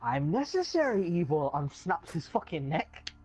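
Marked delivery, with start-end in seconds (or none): 0.0-1.5 put-on villain voice, calm and cold; lightly voiced mock Bane; Bane impression. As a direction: say it like a cold verdict. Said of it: "And he goes".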